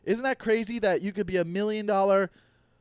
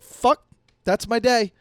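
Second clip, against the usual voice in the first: mock upset rant; 3 semitones higher, 6 dB louder than usual. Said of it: "And you're like".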